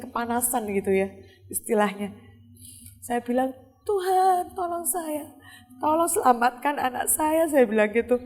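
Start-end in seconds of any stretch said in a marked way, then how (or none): 3.9-7.5 retold desperate plea. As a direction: re-enact begging God to save your child. Re-enacts desperate plea to God. (menirukan permohonan putus asa, bernada tinggi)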